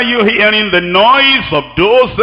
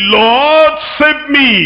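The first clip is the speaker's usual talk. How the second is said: urgent cry; 5 semitones higher, much slower than usual. Retold or imitated. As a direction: call out to the Lord, short and pointed. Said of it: "And he said".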